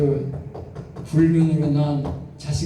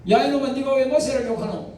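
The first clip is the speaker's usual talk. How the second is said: lightly voiced stern God, a bit higher; God scolding; 6 semitones higher than usual. God rebuking Moses' sister, lightly voiced. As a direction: scold her gently as God. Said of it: "하나님 앞에 질문을 했어".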